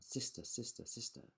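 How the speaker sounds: fading echoed repeat. Acted. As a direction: let it die away like a cave echo. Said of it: "a voice from the cave came back".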